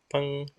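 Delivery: soft plucked-string pung; little string pluck noise; twang sound. Shown as a demonstration. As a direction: imitate a plucked rubber band. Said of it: "try to make a sound like pung".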